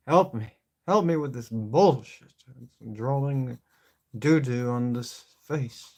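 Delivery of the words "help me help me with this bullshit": mock plea. Pleading about the drawing.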